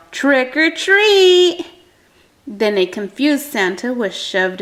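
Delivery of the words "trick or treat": slow, high, drawn-out trick or treat; sing-song creature yell; louder, playful monster shout. A narrator's reading. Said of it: "they yelled".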